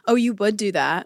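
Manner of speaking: put-on snide mean-girl jab, a touch sweet; lightly voiced mean girl; passive aggressive. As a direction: needle her with a fake-nice remark. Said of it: "passive aggressive".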